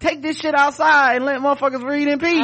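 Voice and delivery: high-pitched, animated complaint; mock exasperation. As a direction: imitate a fed-up reader telling people off. Voices irritation at library arguers.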